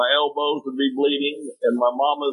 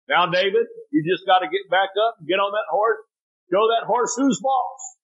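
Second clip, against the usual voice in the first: mimicking dad's urging; 6 semitones higher than usual. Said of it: "standing there going".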